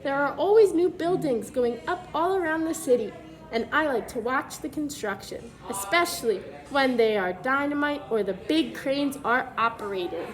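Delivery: put-on clear, even storybook read-aloud for kids; reading to children. Teacher reads the book to the class, storybook read-aloud voice.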